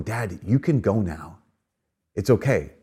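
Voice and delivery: slow, soft reassurance to a dying father; gentle permission. Retold or imitated. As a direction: let him go, softly and slowly. Son at father's deathbed.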